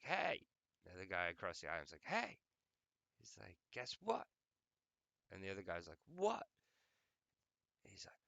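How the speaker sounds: squeaky high cartoon voices; gamer video voices. Retelling a gamer video, squeaky high cartoon voices. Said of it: "it was like".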